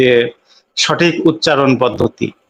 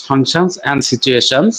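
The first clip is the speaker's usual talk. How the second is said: very slow, each word spelled out; teacher stretching each word; slow emphatic terms; much slower than usual. Shown as a demonstration. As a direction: drag the key terms out for the class. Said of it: "teacher stressing key terms".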